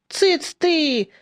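high, mildly scolding interruption; sharp hushing. A narrator's reading. Peasants cutting off one of their own, hushing him. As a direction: shut him up quickly. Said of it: "оборвали мужика остальные".

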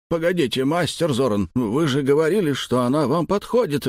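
a father begging the master not to leave; panicked wail. Acted. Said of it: "Голос Раска взвыл над потолком ломаным фальцетом".

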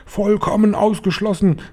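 very high-pitched outraged denial; indignant exclamation. A narrator's reading. Hotel manager rejecting grandmother's rat charge, high indignant cry. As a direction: call it out high, in indignant protest. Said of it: "rief Mister Stringer".

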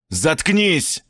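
villain cuts off the detective; barked. A narrator's reading. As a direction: bark it short. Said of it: "рявкнул Евгений".

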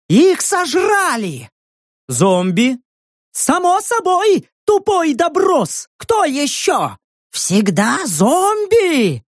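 high, slow, mocking hag voice; scornful old crone. A narrator's reading. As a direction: sneer at the stupid newcomer. (презрительная старуха)

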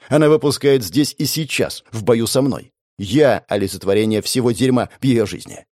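plain reading voice

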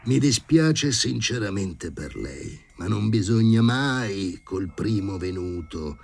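slow, drawn-out earnest counsel; earnest professor. Acted. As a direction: gently admonish her, taking your time. Professor consoles the young lady.

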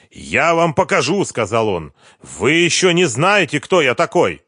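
high, loud warning; cornered boss threatening; menacing threat. A narrator's reading. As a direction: threaten vengefully. Boss threatens while searching desk.

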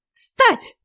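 sudden high shriek of a command; old witch shrieks at her daughter to stand. Acted. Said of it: "взвизгнула она".

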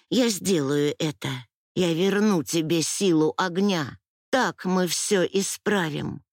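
usual speaking voice

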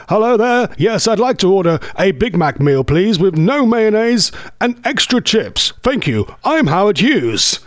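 lightly mock radio-announcer voice; playful announcer impression; Howard Hughes. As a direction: put on a touch of broadcaster grandeur, swooping through the order. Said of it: "imagine having a voice like that".

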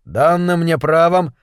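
official, measured declaration; formal ruling, precisely articulated; crisply enunciated. A narrator's reading. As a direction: rap out each word with authority. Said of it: "отчеканил Харп".

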